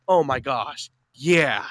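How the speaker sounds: imitating a barely interested woman; unenthusiastic playing along. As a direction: go along with it, unexcited. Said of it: "it's not like she was more excited".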